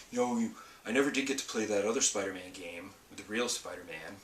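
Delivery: lightly voiced husband impression; put-on husband voice. Wife quoting husband who missed a Spider-Man game, lightly put-on voice. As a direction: imitate a husband, only slightly put on. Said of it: "doing this voice for him".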